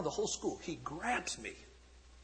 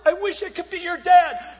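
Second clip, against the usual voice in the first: high, loud heartfelt cry; preacher's heartfelt shout to the men; preaching shout; 11 semitones higher, 11 dB louder than usual. Acted. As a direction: call it out across the whole stage. Preacher crying out to crowd.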